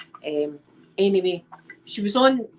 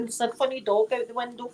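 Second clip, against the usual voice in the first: chatty phone voice; 3 semitones higher, 4 dB quieter than usual. Retold or imitated. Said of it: "just like that".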